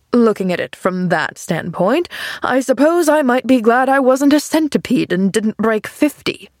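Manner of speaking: sardonic grumpy man, lightly voiced; mock the idea with dry irony; John Pendleton. Man mocking girl's cheerful view, sardonic.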